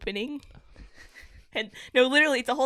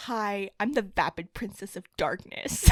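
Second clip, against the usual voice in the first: imitating YouTuber; 2 semitones lower, 4 dB louder than usual. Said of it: "she's like".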